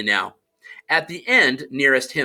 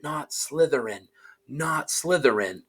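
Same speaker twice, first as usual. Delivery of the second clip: softer, urgent inner plea; pleading thought; 6 dB quieter than usual. Acted. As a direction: beg silently, under the breath. Harry pleading in his head.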